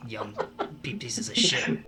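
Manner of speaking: grumbling to himself. Retold or imitated. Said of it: "I start grumbling to myself".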